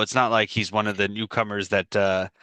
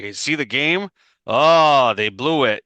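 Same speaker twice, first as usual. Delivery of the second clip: imitated regular Joe; 3 semitones higher, 4 dB louder, slower than usual. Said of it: "regular Joe conversation".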